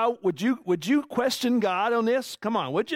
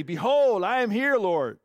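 eager answer; 2 semitones higher than usual. Acted.

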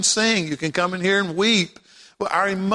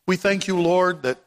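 earnest prayer. Acted. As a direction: pray aloud for the congregation, lowered and earnest. Leads the congregation in prayer.

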